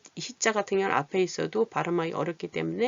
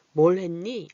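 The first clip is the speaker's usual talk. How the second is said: casual question; 5 dB louder, slower than usual. Shown as a demonstration. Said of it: "이렇게 물어볼 때도".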